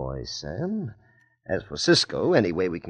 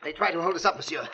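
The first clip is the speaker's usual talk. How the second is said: put-on French accent; 10 semitones higher than usual. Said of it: "What has happened to your French accent".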